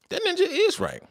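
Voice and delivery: very high, squeaky put-on voice; squeaky mock voice. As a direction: squeak it out like a cartoon. Repeats the quote in a put-on voice.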